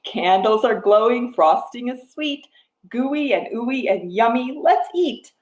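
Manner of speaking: rhythmic picture-book reading; reading to a toddler. Acted. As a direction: read the rhyme to little ones. Reads picture book rhyme.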